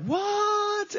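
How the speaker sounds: high, sharp outburst of disbelief; frustrated dad snapping at his daughter; exploding what. Retold or imitated. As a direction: lose it at the messy house. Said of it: "I lost it".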